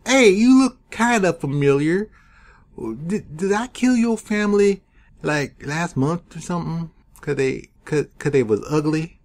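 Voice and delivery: high, sneering put-on thug voice; mock taunting villain. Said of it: "the leader of the Order of Dragon is like".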